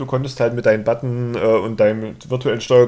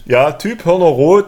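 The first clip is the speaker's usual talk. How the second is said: louder, slow, each word weighted; emphatic slow repeat; 4 semitones higher, 6 dB louder than usual. Pretend. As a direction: hammer home Typ Hörner rot slowly. Echoes it emphatically.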